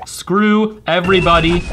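slow, deliberate SCREW everybody; drawn-out curse. Real, not acted. Player cursing all rivals, slow and emphatic. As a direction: stretch out each word of the curse. Repeats curse slowly for effect.

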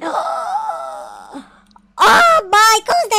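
high gasp, then a loud cry; amazed shout. Real, not acted. Gamer discovers a dirt mansion, amazed shout.

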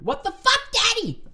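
high, loud outraged yell; angry shout. A narrator's reading. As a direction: shoot it back at full volume. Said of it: "you shoot".

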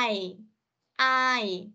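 I as a glide from a to i; diphthong demo. Shown as a demonstration. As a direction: say I, sliding from a into i. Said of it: "từ âm A sang âm Y".

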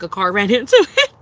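words broken by a laugh; giggling through the line. Real, not acted. Laughing at the crash story.

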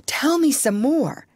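high, eager request; excited. A narrator's reading. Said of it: "said the doctor, all excited".

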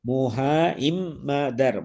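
முஹ இம்மதர் broken up as mo-ha, im, ma-dar; double m. Shown as a demonstration. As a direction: spell out both m sounds in முஹ இம்மதர் with pauses. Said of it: "ரெண்டு இம்மன மாவன வர வேண்டும்".

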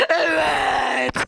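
joyful yes shouted out; victory shout. Real, not acted. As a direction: cheer the win.

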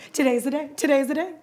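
eager mice. Acted. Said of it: "they both agreed".

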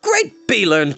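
a mild exclaimed cry; bard cries out. A narrator's reading. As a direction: call out in startled surprise. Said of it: "cried the bard".

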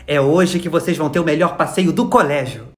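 slow, drawn-out schoolteacher hype; teacher's announcement. Acted. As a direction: announce it slowly like an eager teacher. Acted teacher announcing the outing.

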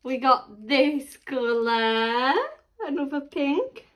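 very slow, stretched-out reveal; playful presenting. Real, not acted. Mum shows toddler another pink, playfully drawn out.

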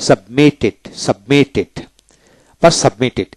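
সাবমিটেড said as a model, sub-MIT-ed; pronunciation demo. Shown as a demonstration. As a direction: model সাবমিটেড for learners, sounding the added -ed. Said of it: "এইভাবে উচ্চারিত হবে". (সাবমিটেড-এর উচ্চারণ দেখিয়ে বলা)

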